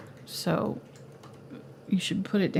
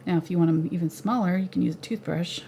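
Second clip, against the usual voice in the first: ordinary delivery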